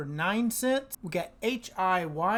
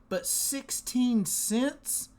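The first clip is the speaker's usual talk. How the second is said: higher, slow, savoring delight; real excitement; 5 semitones higher, slower than usual. Real, not acted. Host relishes the big Misty payout, excited. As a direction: stretch out the happy amount. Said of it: "I am so excited about that".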